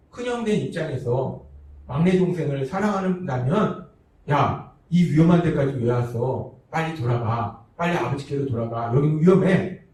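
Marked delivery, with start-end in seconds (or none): 4.3-9.8 형이 동생을 걱정하며 하는 다정한 말투; warm big brother. Retold or imitated. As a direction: gently hurry the little brother home, out of worry. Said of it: "따뜻하게 말하는 것이".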